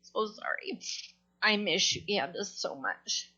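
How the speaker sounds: trying not to cry while saying goodbye; holding back tears. Real, not acted. Friend at a memorial, fighting tears. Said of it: "so I can stop crying".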